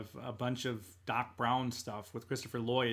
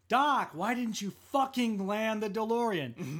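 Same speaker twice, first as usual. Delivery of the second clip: mock Marty complaint; 7 semitones higher, slower than usual. Marty yelling up at Doc.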